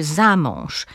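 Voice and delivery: "za mąż" slowly as one word, ZA-mąż; stress on ZA. Shown as a demonstration. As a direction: lean on "za" in "za mąż". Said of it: "Akcent pada na drugą sylabę przyimka". („za mąż” z akcentem na ZA)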